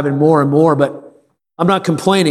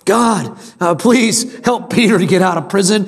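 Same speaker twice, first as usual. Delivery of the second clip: higher and higher, desperate begging; begging prayer; 6 semitones higher than usual. Retold or imitated. Church praying for Peter's release, hammed-up begging. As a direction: beg God in a mounting whiny plea. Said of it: "they're begging God".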